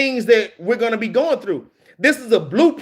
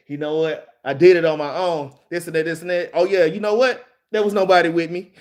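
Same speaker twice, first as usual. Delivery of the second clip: mock bragging; 5 semitones lower than usual. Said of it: "Christ is kinda bragging right here".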